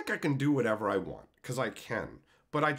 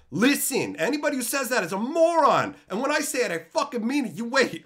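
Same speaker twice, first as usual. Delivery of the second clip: firm declaration; 7 semitones higher, 5 dB louder than usual. Retold or imitated. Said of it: "I'm like".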